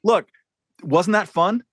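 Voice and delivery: cheery spin, high and bright-eyed; mock press secretary. Press secretary spinning it to America, lightly hammed-up. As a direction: sell the balloon as a fun week. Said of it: "she would be out there saying".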